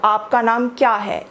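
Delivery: क्या hit hardest, falling after; stress on क्या. Shown as a demonstration. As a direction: lean on क्या in आपका नाम क्या है. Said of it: "यहाँ पे क्या पर जोर है".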